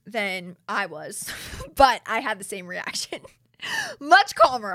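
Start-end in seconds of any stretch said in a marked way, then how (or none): 3.6-4.7 high, loud laughing exclamation. Real, not acted. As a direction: burst out laughing through the words. Laughing at her own contrasting reaction.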